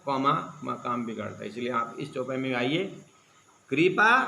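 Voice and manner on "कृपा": कृपा loud and high, rising into a pause; comma after कृपा. Shown as a demonstration. Preacher telling listeners to place a comma, कृपा raised before a break. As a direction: lift कृपा and hold it apart. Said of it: "comma लगाइए दिमाग में".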